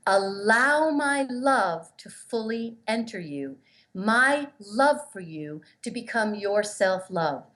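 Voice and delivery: slow, tender voicing of Jean; lovingly, unhurried; a gentle spirit voice; tender slow message. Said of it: "what he was saying was".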